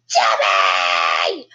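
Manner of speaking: low, loud call across the house; mock call for help. Father calling his wife for help, low holler. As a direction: holler for him in a put-on low voice.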